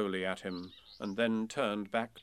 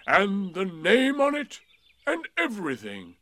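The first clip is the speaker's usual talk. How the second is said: gloomy donkey voice; 9 semitones higher, 9 dB louder than usual. A narrator's reading. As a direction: speak as a weary old donkey. Eeyore voiced in story.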